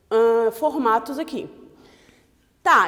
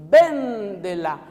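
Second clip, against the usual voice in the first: Véndela slow and louder, the vén of Véndela stressed; 2 semitones lower, 6 dB louder, much slower than usual. Shown as a demonstration. Teacher showing the new proparoxytone stress. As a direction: hit the vén in Véndela slowly. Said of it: "Virou próparoxítona".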